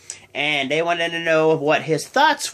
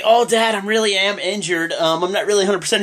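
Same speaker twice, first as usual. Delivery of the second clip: a touch higher, pleading whine; whiny son; 4 semitones higher, faster than usual. Retold or imitated. Jason Jordan making excuses to his dad, mild whine. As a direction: make excuses to Dad, whining. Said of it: "he was being a little witch".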